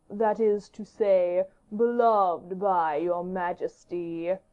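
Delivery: sly courtier choosing his words with care; measured knowing courtier; courtier Saint Aignan. Acted. Saint Aignan voiced slowly.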